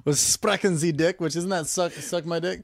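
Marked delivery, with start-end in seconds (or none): 0.2-1.2 slow, higher mock-German; deliberate, joking German accent. Shown as a demonstration. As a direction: put on a rough German accent. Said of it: "Give me German".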